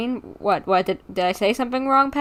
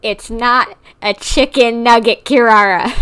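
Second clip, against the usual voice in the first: laughing scold; 8 dB louder than usual. Real, not acted. Scolding cat through laughter.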